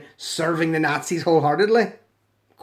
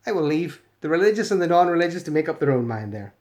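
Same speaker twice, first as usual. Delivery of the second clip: ordinary delivery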